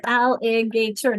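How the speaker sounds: alligator said slowly as al-li-ga-tor; slow alligator broken into syllables; syllables counted. Shown as a demonstration. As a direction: count out each beat of alligator. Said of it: "Now let's count them".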